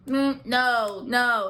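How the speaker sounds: firm, emphatic no; "no" button. Retold or imitated. Talking button saying no to a pushy woman, firm. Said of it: "a button that said no".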